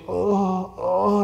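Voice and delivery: long drawn-out mock "oh" of pain; imitated pained groan. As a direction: groan as if aching, played for the story. Imitates woman in pain sitting down.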